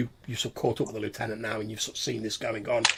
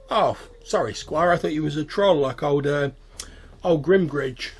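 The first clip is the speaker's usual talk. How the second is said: lightly voiced goblin, slightly raised; apologetic goblin; 5 semitones higher, 6 dB louder, slower than usual. Goblin who mistook the squire for a troll, apologetic. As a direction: excuse the mistake as a goblin.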